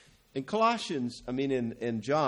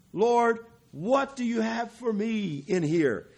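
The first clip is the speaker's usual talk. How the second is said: raised, slow, pleading call to the Lord; earnest prayer; 10 semitones higher, slower than usual. Shown as a demonstration. Preacher modelling a prayer for the congregation, raised and pleading. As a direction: lift it up as a prayer, drawn out. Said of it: "and you need to say".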